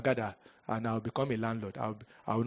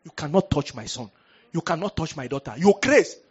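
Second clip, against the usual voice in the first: crazed deliverance shout; 2 semitones higher, 7 dB louder than usual. Shown as a demonstration. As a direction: shout at the demons like you've gone mad. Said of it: "You must ready to tear shirt".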